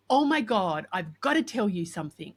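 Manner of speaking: mock gushing "I have news" delivery; lively imitation of an eager confider; excited retelling.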